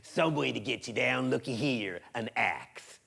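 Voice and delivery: villain voice sinking to a low hush; hairy man. Acted. Hairy man finding the axe below Wiley, menacing.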